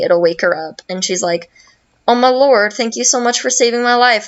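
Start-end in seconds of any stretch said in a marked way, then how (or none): 2.1-4.3 higher, mock-gushing thanks, quickening; gushing gratitude. Peach thanks Loveby for waking her, gushing and higher. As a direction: gush it like a rescued princess.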